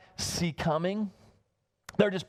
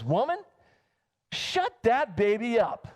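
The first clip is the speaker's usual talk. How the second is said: stern preacher order; 4 semitones higher than usual. Retold or imitated. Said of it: "and he says".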